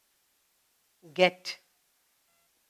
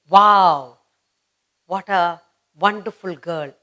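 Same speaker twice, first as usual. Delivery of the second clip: teacher praising a pupil; 2 semitones lower, 5 dB louder than usual. Retold or imitated. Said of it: "What would the teacher say?".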